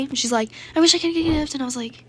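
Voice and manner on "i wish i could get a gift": high, loud mimicry of a gift beggar; mock wishing. Girl hinting to player for a gift, mocking high imitation.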